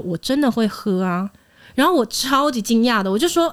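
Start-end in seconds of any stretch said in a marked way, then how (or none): 0.0-1.3 earnest. Retold or imitated. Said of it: "他就很认真说".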